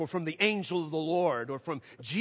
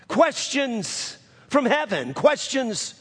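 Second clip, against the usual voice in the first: high, slow and drawn-out; slow down and weigh every word; preacher stressing the refrain, slow; emphatic refrain; 5 semitones higher, slower than usual. Acted. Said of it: "emphatic slow refrain".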